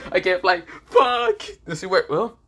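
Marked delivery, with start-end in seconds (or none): 0.1-1.4 louder, higher panicked cry; panicking. Acted. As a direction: freak out as it sinks in. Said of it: "he said".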